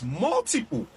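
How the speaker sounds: "multiple" drawn out slowly for emphasis; stress on multiple. Real, not acted. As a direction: underline "multiple" by stretching it out. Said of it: "underline the word".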